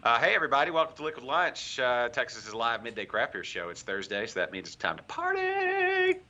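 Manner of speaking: stiff robot voice; stiff, mechanical robot delivery. Acted. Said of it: "Why are you talking like a robot?".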